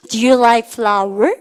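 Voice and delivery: very slow, drawn-out words; slow choral reading. Shown as a demonstration. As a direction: lead the class slowly, word by word. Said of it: "Do you like, 시작". (아주 느리게 끌며 읽기)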